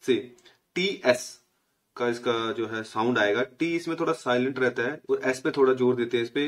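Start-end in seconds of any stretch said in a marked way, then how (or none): 0.0-1.4 से, टीएस spoken slowly and deliberately; teacher slowly sounding out से, टीएस; slow sound demo. Shown as a demonstration. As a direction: model से and then टीएस slowly for students. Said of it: "इसको ये बोलते हैं से".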